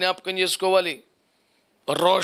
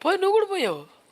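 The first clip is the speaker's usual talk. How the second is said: mocking jab; 12 semitones higher, faster than usual. Mocking a fallen believer.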